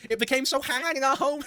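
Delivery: lightly mocking Boston accent. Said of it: "she's still doing the fucking accent".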